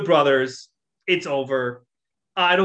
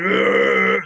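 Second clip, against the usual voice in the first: mock growl; 6 dB louder than usual. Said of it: "And he's going".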